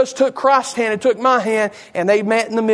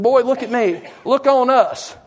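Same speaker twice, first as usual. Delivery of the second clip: higher, commanding call; fervent command; 3 semitones higher, slower than usual. Acted. Peter filled with the Holy Ghost to the beggar, commanding. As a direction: demand his attention, pitch lifted. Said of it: "Peter was filled with the Holy Ghost then".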